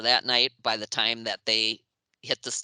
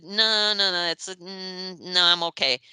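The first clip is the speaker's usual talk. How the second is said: higher, louder mock protest; flustered refusal; 6 semitones higher, 4 dB louder than usual. Shy writer refusing to join band photo, flustered mock protest. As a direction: stammer a polite refusal, pitched up.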